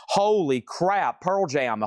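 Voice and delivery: drawn-out, slow holy crap; real astonishment, dragged slowly; excited surprise. Real, not acted. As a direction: stretch it out in disbelief at the find. Excited find of a band's record.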